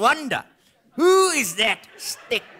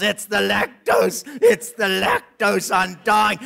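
whiny lactose complainer; 3 semitones lower, slower than usual. Retold or imitated. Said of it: "those lactose intolerant assholes".

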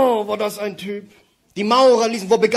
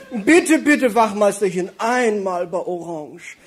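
camp begging; slower than usual. Acted. Camp man begging officer.

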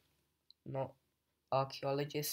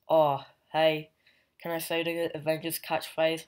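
louder, eager question bursting out; 6 dB louder than usual. Retold or imitated. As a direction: jump in like a keen kid asking to join. Riri eager to say catchphrase.

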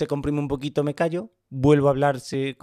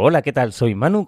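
same greeting, louder; louder take; 6 dB louder than usual. Shown as a demonstration. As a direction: say the greeting with more punch. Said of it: "Y aquí te digo".

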